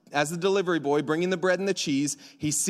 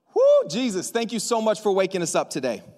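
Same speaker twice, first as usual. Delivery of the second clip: prayer. Acted. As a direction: lead the church in thanksgiving prayer. Opens prayer.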